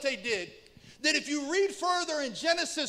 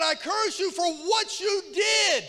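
Jacob cursing; 3 semitones higher, 4 dB louder than usual. Retold or imitated. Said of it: "He said".

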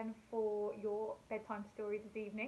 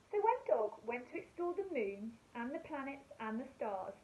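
put-on gentle storybook reading for young children; bedtime story narration. A narrator's reading. Teacher reading a bedtime story to her class, gentle storytelling. Reads a bedtime picture book.

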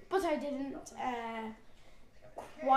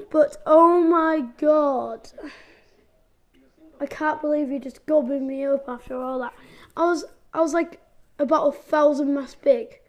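loud lament; 2 semitones higher, 10 dB louder than usual. Real, not acted. Complaining after being eaten.

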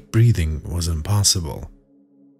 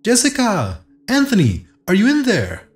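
very high-pitched calling shout; high, carrying call, not full volume; shouting into a hole; 13 semitones higher than usual. Acted. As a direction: holler down a tunnel for missing friends. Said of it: "she shouted into the hole".

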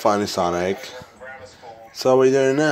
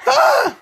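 sudden high yelp of fright; startled scream; 5 dB louder than usual. Acted. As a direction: shriek as if something jumped out.

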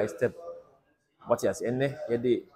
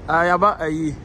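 excited shout; 4 semitones higher, 10 dB louder than usual. Real, not acted. Hyped arrival shout.

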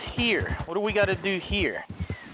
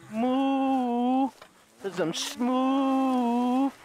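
mock cow; 4 semitones higher, much slower than usual. Imitating a cow, slow.

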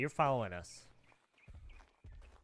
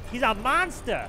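amazed exclaim; 9 semitones higher, 7 dB louder than usual. Real, not acted. Hyping again, louder.

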